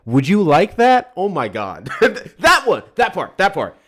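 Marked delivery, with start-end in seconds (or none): 0.1-1.1 high, loud, slow mock-sweet offer; mock cooing offer. Mocking the senator's fawning pitch to Netanyahu, high and syrupy. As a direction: coo it like a suck-up.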